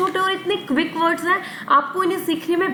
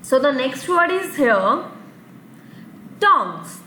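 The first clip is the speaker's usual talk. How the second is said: slow announcement; much slower than usual. Shown as a demonstration. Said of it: "teacher announces next word slowly".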